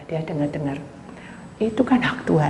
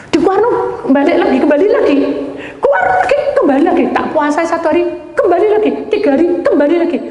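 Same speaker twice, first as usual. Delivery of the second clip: laughing exasperation; 11 semitones higher, 6 dB louder, faster than usual. Real, not acted.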